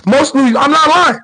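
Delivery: breaks into a high laugh mid-word. Real, not acted. To his viewers about New Yorkers, laughing. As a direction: laughs it out, can't keep a straight face.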